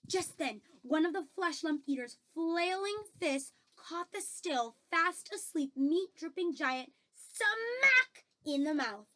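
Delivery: animated reading, stretching the impact word; lively story narration. A narrator's reading. Reader recounts the accidental punch and kick, lively story narration. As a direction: tell the mishap with relish on each blow.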